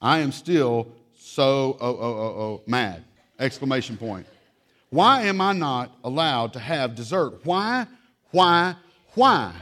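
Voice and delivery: hammed-up childish whine; whiny child. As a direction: wail like a denied kid. Child whining why.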